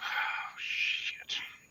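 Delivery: very soft, under the breath. Voicing a character reacting as screens glitch: very soft, under his breath. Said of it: "very, very softly under his breath go".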